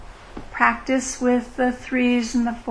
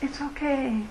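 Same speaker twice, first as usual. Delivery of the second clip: "It's okay" said much softer, easing down at the end; gentle reassurance; 3 semitones higher, 7 dB quieter than usual. Retold or imitated. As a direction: breathe "It's okay" quietly, like comforting a friend. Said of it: "Maybe it would be just".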